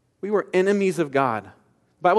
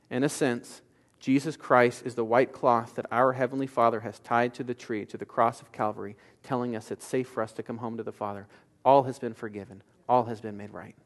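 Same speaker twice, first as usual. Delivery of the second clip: softer, lower, tender close to the story; tender soft preaching; 4 semitones lower, 5 dB quieter than usual. Acted. Preacher to congregation, softly applying the story. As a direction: hush it down, let it land gently.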